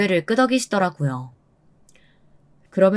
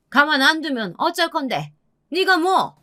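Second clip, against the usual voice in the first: 높은 목소리로 쏘아붙이듯; 따져 묻는 시어머니; 9 semitones higher than usual. Acted. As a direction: challenge back as an indignant mother-in-law, pitched high. 시어머니가 며느리에게 맞서는 장면. (따지듯 높은 시어머니 목소리)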